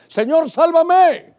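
high, loud, drawn-out cry for help; retold desperate cry. Preacher voicing Peter in mortal danger, crying out. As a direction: cry out slowly for rescue. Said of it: "Gritó".

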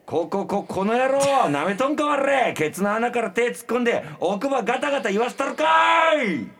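high, loud Kansai thug tirade; stammer, then build to a drawn-out roar; furious threat. Acted.

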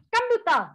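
computer said loud and high as "kamdutơ", stress on the wrong syllable; frustrated repeat of a word nobody understands; computer with Vietnamese stress. Retold or imitated. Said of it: "mình nhấn âm sai".

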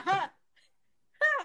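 high "ha", then another; performed "ha". Retold or imitated. Actress showing the only thing she did onstage, high "ha". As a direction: demonstrate the high stage cry "ha". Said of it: "Lo único que yo hacía era".

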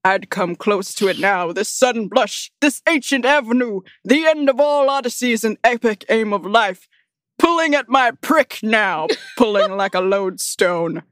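a hint of a hammed-up preacher, breaking into giggles; mock-solemn poem reading. Reading a ridiculous poem aloud to friends in mock solemnity. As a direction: read it grandly, barely holding back laughs.

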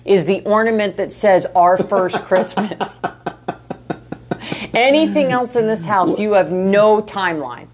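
aggressive New York accent; heated New York accent. Real, not acted. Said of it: "Why did the New York accent come out".

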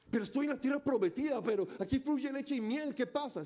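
mock frustrated believer.

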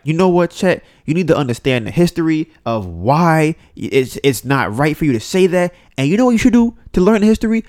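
preachy imitation rising to an indignant peak; lecturing black women. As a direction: talk down to Chet like you're schooling him. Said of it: "these black women are like".

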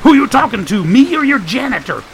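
high-pitched character yell; yelling to be heard. A narrator's reading. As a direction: shout it indignantly over the din. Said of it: "They had to yell to be heard".

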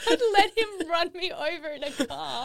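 lightly put-on swooning woman; mocking a fan. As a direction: parrot the line back, teasing. Mimicking a woman's message.

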